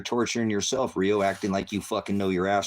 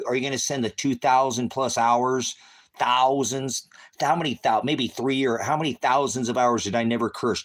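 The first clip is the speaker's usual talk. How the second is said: angry shouting; 5 semitones higher, 4 dB louder than usual. Real, not acted. Yelling challenge at commenter.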